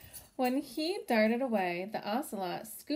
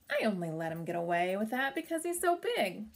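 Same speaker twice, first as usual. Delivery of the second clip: grumbling; 3 dB louder, faster than usual. Acted. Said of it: "he grumbled".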